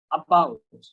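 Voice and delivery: "about" as a-BOUT, falling; schwa pronunciation. Shown as a demonstration. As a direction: model "about" with a short opening ah. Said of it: "আহ উচ্চারণ করবো". ("about"-এর শুরুতে আ উচ্চারণ)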